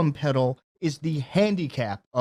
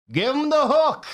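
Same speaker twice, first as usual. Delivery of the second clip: mock heckler shout; 10 semitones higher, 4 dB louder than usual. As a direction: yell it like a rowdy audience member. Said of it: "to just shout".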